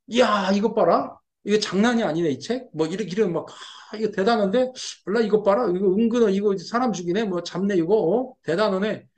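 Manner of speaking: mock wonder, drawing out the opening exclamation; mild acted admiration. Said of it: "이런 식으로 이렇게 감탄이 우러나는". (살짝 감탄하는 척하는 말투)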